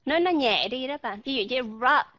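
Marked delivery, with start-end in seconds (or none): 1.6-2.1 "rup" with a full, clear short U. Shown as a demonstration. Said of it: "đọc rõ ràng".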